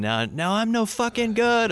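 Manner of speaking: quoting a lyric. Retold or imitated. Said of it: "And then he's, uh, saying".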